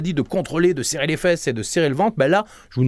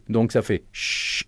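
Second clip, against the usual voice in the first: sh sound; 4 semitones lower, slower than usual. Shown as a demonstration. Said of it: "vous allez faire le son che".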